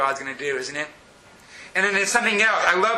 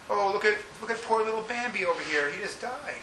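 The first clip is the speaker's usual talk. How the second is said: mock lament; 4 semitones higher, 6 dB quieter than usual. Mock lament over Bambi.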